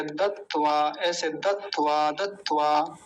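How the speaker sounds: दत्वा as "dat-twa"; दत्वा in two separated parts; half t held apart. Shown as a demonstration. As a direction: hold the t in दत्वा, then release "twa". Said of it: "एक त आधा और त्वा अलग".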